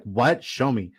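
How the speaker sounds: lightly caricatured wife demanding proof; mock-demanding imitation of a wife; exaggerated wife voice. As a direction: put on a mildly exaggerated spouse voice. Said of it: "she actually doesn't speak like that".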